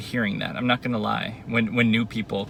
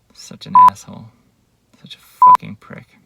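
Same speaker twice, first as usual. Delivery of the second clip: furious shout; 14 dB louder than usual. Real, not acted. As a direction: spit the insult out in real anger. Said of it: "I'm just kind of fucking raging".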